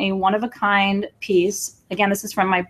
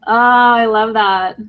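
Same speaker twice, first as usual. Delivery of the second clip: delighted; 7 dB louder, slower than usual. Real, not acted. Reacting to a viewer's comment.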